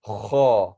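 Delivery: kha scraped against the top of the mouth; scratchy kha. Shown as a demonstration. Teacher showing kha as a scratching heavy letter. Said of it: "scratching at the top of your mouth".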